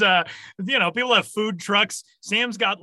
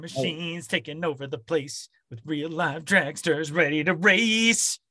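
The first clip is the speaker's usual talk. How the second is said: commercial announcer. Retold or imitated. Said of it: "remember the Micro Machine commercials".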